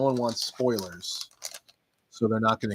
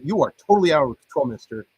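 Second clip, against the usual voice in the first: fast, louder mock telling-off; mock scolding; 5 dB louder, faster than usual. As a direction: playfully scold him like a strict referee. Scolding wrestler like a referee.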